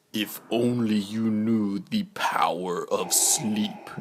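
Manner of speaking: hushed menacing whisper; Vader whisper. Acted. Vader luring the twins to sleep, whispered menace. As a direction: tempt them like a dark lord.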